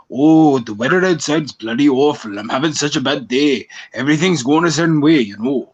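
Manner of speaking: a hammed-up posh British voice, lightly done; mock British accent. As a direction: imitate a Brit moaning about the weather. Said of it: "you don't hear me saying".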